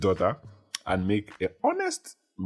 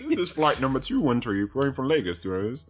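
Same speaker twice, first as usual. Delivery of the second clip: raised airline captain voice; pilot cockpit headset; 6 semitones higher than usual. Pretend. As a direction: announce the flight like a pilot. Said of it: "How do those guys do that thing?".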